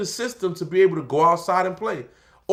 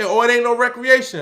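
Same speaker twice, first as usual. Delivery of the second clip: guard announcement; 5 semitones higher, 6 dB louder than usual. Retold or imitated. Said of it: "When they say".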